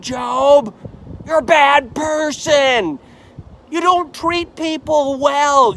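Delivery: a friend denouncing Job, shouting him down; accusing shout. Acted. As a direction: hammer the charges home at Job. Preacher berates Job as his friend.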